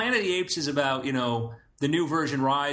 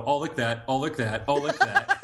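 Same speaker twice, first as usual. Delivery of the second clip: lightly voiced dog, escalating; talking dog. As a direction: say it like a dog fixated on licking. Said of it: "a dog might be like".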